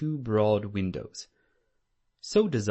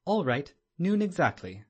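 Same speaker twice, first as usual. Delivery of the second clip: eager; 7 semitones higher, 5 dB louder than usual. A narrator's reading. Watson agreeing eagerly.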